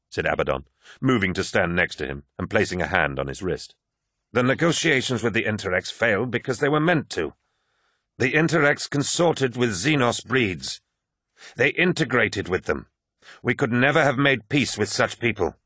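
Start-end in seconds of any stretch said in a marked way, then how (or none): 4.3-15.5 higher, insistent character voice; lightly voiced warrior justifying a cause; firm warrior captain. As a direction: argue the case firmly. Voices Abaddon in narration.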